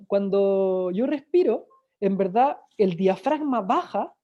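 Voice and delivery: teacher slowing down to show breathing; slow explaining. Shown as a demonstration. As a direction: draw out the breathing explanation calmly. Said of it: "uno cuando respira hace como".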